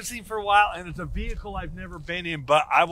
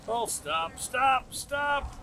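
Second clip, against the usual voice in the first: excited calling out; 6 semitones higher, much slower than usual. Real, not acted. Calling the timed run's finish.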